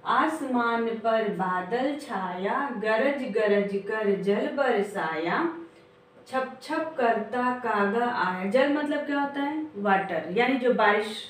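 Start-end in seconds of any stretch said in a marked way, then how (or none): 0.0-8.5 put-on slow, sing-song rhyme for children; slow poem recitation. Shown as a demonstration. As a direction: chant each line slowly for the class. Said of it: "मेरे साथ पढ़िए". (धीमी लय में कविता पाठ)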